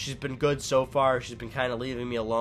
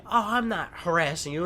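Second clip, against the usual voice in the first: higher-pitched mock innocent protest; mocking, higher-voiced denial; retold neighbor; 6 semitones higher, 3 dB louder than usual. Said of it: "She was like".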